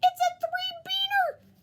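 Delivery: high, loud, slow dog cheer; excited declaration. Acted. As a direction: proclaim it like a prize. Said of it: "declared the Perritos".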